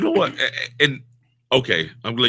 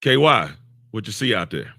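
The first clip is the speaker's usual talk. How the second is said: calm coach question; 2 semitones lower than usual. Retold or imitated. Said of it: "what good coaches say is".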